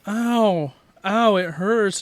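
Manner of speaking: put-on high, loud childlike whimper of pain; hammed-up toddler ow; kid crying ow. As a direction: mimic a little kid hurting. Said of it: "and he goes".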